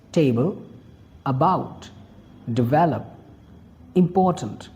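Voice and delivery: each word set apart with its stressed syllable brought out; "table", "about", "develop", "important", each with clear stress. Shown as a demonstration. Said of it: "Every word has a stress syllable".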